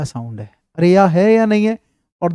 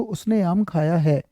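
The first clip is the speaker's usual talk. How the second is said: slow example sentence; slower than usual. Shown as a demonstration. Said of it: "जैसे देखो".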